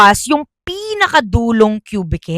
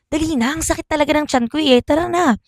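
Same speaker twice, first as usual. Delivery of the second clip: urgent pleading; 5 semitones higher, 4 dB quieter, faster than usual. Acted. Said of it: "Dagdag ni Ria".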